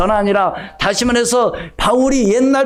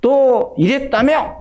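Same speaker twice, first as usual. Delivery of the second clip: confronting quote; 4 semitones higher, much slower than usual. Retold or imitated. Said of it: "이런 거예요".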